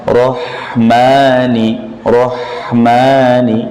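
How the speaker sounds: Rahmani slowly with ma held only two beats; measured two-beat ma; shorter ma. Shown as a demonstration. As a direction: draw out Rahmani, keep ma to two counts. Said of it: "Kurangi lagi".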